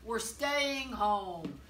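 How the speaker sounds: loud call to the elves. A narrator's reading. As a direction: boom the order across the workshop. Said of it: "He called to his elves".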